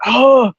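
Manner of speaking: high "oh" of being hit; imitated pained reaction. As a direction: re-enact a jab to the throat. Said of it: "and I was like".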